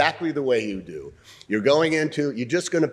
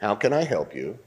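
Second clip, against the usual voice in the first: kind offer of help. Shown as a demonstration. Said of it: "So I will give the line".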